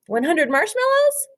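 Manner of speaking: put-on a girl turning over an idea; pondering girl voice. Jessica weighing ideas, voiced.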